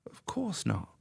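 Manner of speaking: whispered aside, wry. Real, not acted. Admitting to Eddie he never took the pill, whispered. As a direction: breathe it out like a confession.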